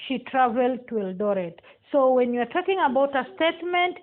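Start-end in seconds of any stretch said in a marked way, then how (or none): 0.1-1.6 "Eldoret" dropping at the end; falling intonation. Shown as a demonstration. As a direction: demonstrate a statement falling on "Eldoret". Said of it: "we use a falling intonation".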